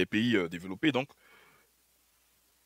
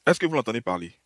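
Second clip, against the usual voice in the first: mocking disbelief at the clip; insistent repeat; 3 dB louder than usual. Real, not acted. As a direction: repeat the question, pushing it harder. Repeats question to audience.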